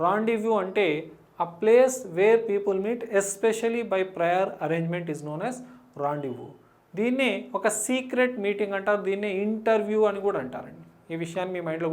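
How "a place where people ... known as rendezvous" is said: very slow, deliberate definition read. Shown as a demonstration. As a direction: dictate the definition word by word. Reading definition aloud slowly. (నెమ్మదిగా నిర్వచనం చదవడం)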